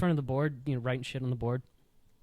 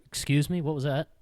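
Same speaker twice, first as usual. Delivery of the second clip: pointed, louder challenge; tag challenging; 2 semitones higher, 6 dB louder than usual. Retold or imitated. Tripped teacher confronts the student, challenging. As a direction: confront him with raised volume.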